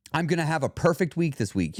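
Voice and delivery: definite, absolute promise; absolute prediction. Shown as a demonstration. Showing listeners what not to say, absolute prediction. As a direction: declare it with no wiggle room. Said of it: "You hear the difference?".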